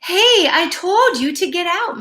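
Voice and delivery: mock-stern big dog scolding a bunny; barking tough dog. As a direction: bark it at the bunny. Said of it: "Mike barked at the first bunny".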